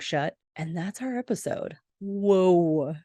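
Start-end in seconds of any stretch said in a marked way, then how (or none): 2.0-2.9 a loud, real whoa and a sharp gasp; thrilled gasp. Real, not acted. Recapping the episode finale to viewers, a genuinely thrilled whoa. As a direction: blown away by the ending, let it out. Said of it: "chills every time".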